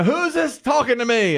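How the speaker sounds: high-pitched mock outrage; retold indignant demand. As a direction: demand it like an affronted dad, imitated. Retold angry dad confronting gamers.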